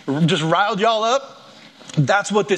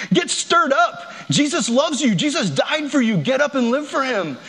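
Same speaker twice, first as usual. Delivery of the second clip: urgent call to the youth group to get up; rousing exhortation; 6 semitones higher than usual. Real, not acted. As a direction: pitch lifted high, words pushed out with energy. Preaching exhortation.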